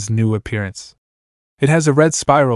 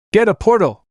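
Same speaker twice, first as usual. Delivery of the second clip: high teasing shout; 9 semitones higher than usual. Acted. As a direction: yell it down at the couple.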